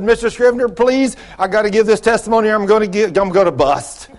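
high, eager imitated begging; dramatised urgent excitement; bursting to testify. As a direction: plead as if unable to hold it in. Woman begging to testify, retold.

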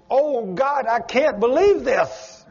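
mock-shout with wonder, voice way up; retold joyful scream. Woman healed of a lump retelling her joy, high excited cry. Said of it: "jumping up and down and screaming".

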